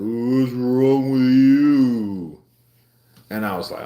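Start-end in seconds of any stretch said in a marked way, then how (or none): 0.0-2.4 coworkers asking. Retold or imitated. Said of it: "Everybody like".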